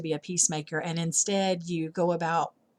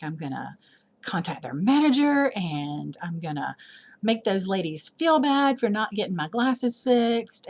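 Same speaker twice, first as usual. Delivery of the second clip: ranting about the shop manager, half mocking; retold fury; 2 semitones higher than usual. Mom retelling her Walmart glasses rant, mock fury. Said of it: "furious the other day".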